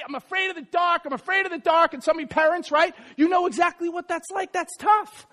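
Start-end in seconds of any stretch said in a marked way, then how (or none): 0.0-1.9 put-on higher-pitched child's repeated complaint; imitating scared kid. Seven-year-old complaining to parents at night, mock frightened. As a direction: lightly mimic a fretful child. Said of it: "now I have a kid".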